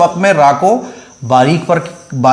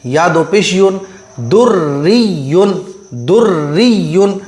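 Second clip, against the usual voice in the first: qaida recitation. Shown as a demonstration. Teacher spells out qaida syllables.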